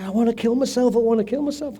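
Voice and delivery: high, loud mock scream; loud high imitated wail; retold screaming. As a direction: shriek it as the distraught wife. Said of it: "and she's screaming".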